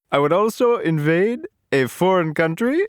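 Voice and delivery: a hint of pompous King Julian. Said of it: "My favorite King Julian line".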